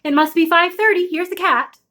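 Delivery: a hint of a mother's dry remark; mother noting the time. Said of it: "my mother would say".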